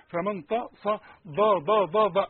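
"طا صا ضا" each said thick and emphatic in a run; wrong heavy letters. Shown as a demonstration. Teacher mocking wrong heavy pronunciation. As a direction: rattle off heavy "طا صا ضا ضا". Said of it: "مش قرآن".

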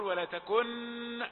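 ولا تكن ending in an exposed, held n; wrong, clear noon. Shown as a demonstration. Teacher warning against izhar, تكن with a clear n. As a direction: show the mistake, sounding the noon of تكن openly. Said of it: "لا تقل".

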